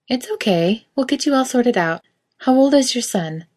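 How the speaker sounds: cheerful shop assistant; bright saleswoman. A narrator's reading. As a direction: reassure the lost customer brightly. Saleswoman voiced in story.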